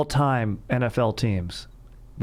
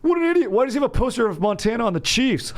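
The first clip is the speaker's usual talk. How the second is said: mocking older kid; 13 semitones higher, faster than usual. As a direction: jeer like a snotty older kid. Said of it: "he goes".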